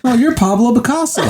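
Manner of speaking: high, giggly retold line; laughing mock reveal. Man in wheelchair naming the painter, retold laughing. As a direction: deliver the absurd answer through laughter.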